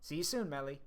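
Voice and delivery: put-on light Brooklyn accent, Meowth-like; a little Brooklyn accent. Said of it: "I'm gonna give her a little Brooklyn accent, like Meowth".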